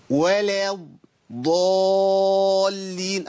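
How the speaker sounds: الضالين chanted with a hugely prolonged long A; demonstration recitation. Shown as a demonstration. Teacher asks pupils to listen, الضالين recited with a long-held vowel. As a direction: recite ولا الضالين slowly, holding the ضا very long. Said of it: "اسمعوا كده".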